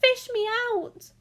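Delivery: high, loud desperate plea; yelling for rescue. A narrator's reading. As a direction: shout to be pulled out. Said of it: "he yelled".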